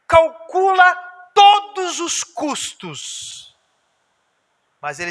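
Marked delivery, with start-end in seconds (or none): 0.1-3.6 slow and drawn out. Acted. Pastor mocking the calculating believer, slow and drawn out. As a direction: drag out every word, much higher and louder.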